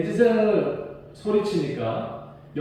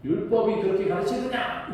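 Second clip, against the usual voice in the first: higher, slowing indignant rebuke; Paul yelling rebuke; 5 semitones higher than usual. Retold or imitated. Paul shouting a rebuke at the high priest. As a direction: rebuke the hypocrite judge. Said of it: "이렇게 소리를 질러버렸어요".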